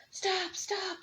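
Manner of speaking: high, breathless "stop, stop"; the old couple running, wheezing. Acted. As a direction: puff it out, out of breath. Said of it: "they wheezed".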